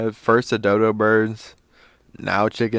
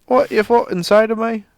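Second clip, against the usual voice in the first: high, loud play-acted challenge; mock brawler shout; 12 semitones higher, 10 dB louder than usual. Podcaster acting out a pub brawl, mock-aggressive shout. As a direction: holler like someone starting a bar fight. Acts out a pub bar fight.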